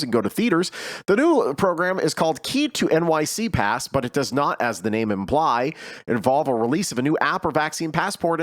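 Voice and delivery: steady news-reader delivery. Acted. Host reading the vaccine mandate article to listeners, news read.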